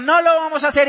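high, loud refusal; acted quarrel. Husband refuses his insisting wife, high and loud. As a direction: fire back an emphatic No.

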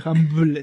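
Hamlet slowly, as "JAM-blet"; pronounced with B. Shown as a demonstration. Teasing a friend's name, Hamlet said slowly with a B. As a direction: draw out Hamlet with an added B before the L. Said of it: "Con B".

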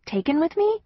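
high rising disbelief; surprised repeat. Acted. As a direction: echo it back, amazed. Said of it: "I repeat".

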